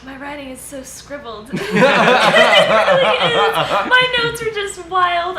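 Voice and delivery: high, helpless laughing through the words; giggling, breaking into a loud laugh; laughing at oneself. Real, not acted. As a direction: laugh out loud at your own mess. Flustered laugh over own scribbled notes.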